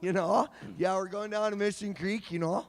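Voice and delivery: slacker local dialect; Kelowna dialect. Shown as a demonstration. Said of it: "that is a dialect".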